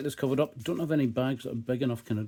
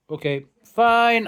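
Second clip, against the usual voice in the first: strained by chilli heat; 11 semitones higher, 11 dB louder, much slower than usual. Real, not acted. Reacting to very hot chilli.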